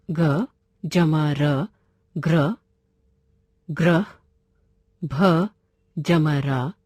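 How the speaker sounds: teacher building ग्र, भ्र, क्र clusters letter by letter; slow spelled-out letters. Shown as a demonstration. Teacher to class, spelling out clusters slowly. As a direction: sound out ग जमा र as ग्र then ग्रह, slowly and clearly. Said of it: "पदेन कहते हैं, जैसे".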